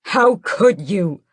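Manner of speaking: slow, loud stressed How; angry yell. Acted. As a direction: demand an answer in fury. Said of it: "I yell at her".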